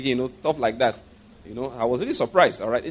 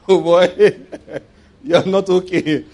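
mock pity; 2 semitones higher, 6 dB louder, much slower than usual. Mock reply to proud answer.

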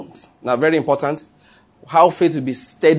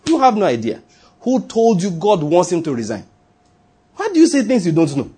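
rising rebuke; 2 semitones higher than usual. Real, not acted. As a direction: scold the congregation with rising heat. Preacher rebukes false talk, rising.

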